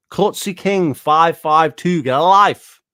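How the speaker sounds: slow, loud, cutting yell; angry shout. Real, not acted. Naming the uploader to his face, slow loud angry shout. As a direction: spell out his name and yell at him.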